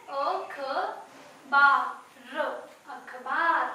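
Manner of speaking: अ, ख, ब, र separated, then अखबार blended; sounding out letters. Shown as a demonstration. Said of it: "आ की sound कहाँ आ रही है?". (अखबार ध्वनियों में)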